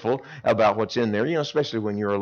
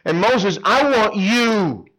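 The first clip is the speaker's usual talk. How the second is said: voice of God; 5 semitones higher than usual. Retold or imitated. God urging Moses to go back, earnest. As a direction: call him to act, gravely. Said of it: "And God says to him".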